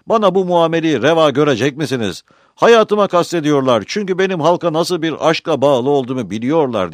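loud, high oratory to the crowd; impassioned crying out. A narrator's reading. Pizistrat inciting the Athenians against his attackers, crying out. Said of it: "diye haykırdı".

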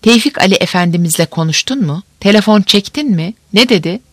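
quick eager questions; excited. Acted.

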